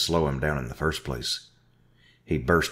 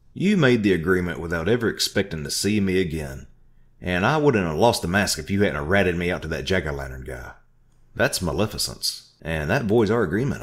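loud, higher accusation; angry; 3 semitones higher, 4 dB louder than usual. Acted. Narrator accusing Orville, angry. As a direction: press the accusation hard. Heated argument.

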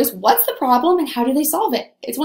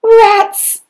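high, loud fed-up fairy; annoyed fairy; 10 semitones higher, 8 dB louder than usual. Acted. Little fairy cursing her failed spell, high and loud. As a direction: spit it out, cross with herself. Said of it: "said the little fairy".

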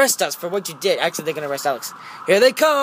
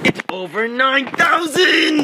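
mock meme shout; 5 semitones higher than usual.

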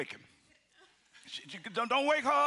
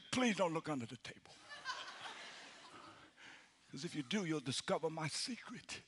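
lower, much softer, slowing to near silence; inner plea; 6 semitones lower, 9 dB quieter than usual. Retold or imitated. Preacher silently begging the pastor not to look, much softer and lower. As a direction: hush it down like a guilty secret. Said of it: "And I'm thinking".

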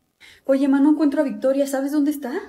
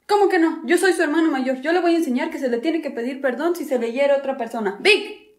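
indignant scolding; 3 semitones higher than usual. Acted. Big brother scolding sister.

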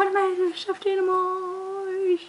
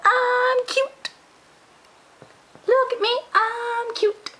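put-on slow sung southern accent, cute pet; 6 semitones higher, slower than usual. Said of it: "I have a southern accent".

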